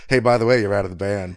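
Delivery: retold firing, loud opening; retold screaming match. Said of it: "screaming match".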